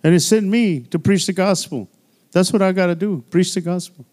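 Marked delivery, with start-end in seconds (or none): 0.0-1.9 mock proclamation. Shown as a demonstration. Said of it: "then you can tell people".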